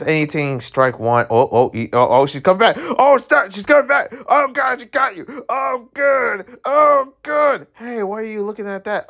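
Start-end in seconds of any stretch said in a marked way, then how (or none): 2.8-7.7 high-pitched fangirl squeals; excited squealing. Real, not acted. Streamer squealing as the game couple meet, excited. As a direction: squeal at the screen like your ship just sailed.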